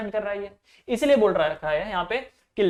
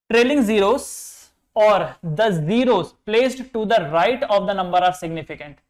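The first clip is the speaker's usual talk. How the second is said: slow dictation; much slower than usual. Shown as a demonstration. Teacher dictating a rule to students, very slow and even. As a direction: read the rule out very slowly, word by word. Reads rule aloud for notes.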